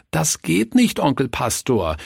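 put-on high, plaintive child voice; whining children. A narrator's reading. Child robbers refusing to beat the pastor, whining. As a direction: protest with a childish whine. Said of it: "jammerten die Räuber".

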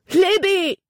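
high, loud call across the water. A narrator's reading. Jordan shouts to Libby drowning in the creek. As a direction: shout her name from far off. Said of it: "den Schrei".

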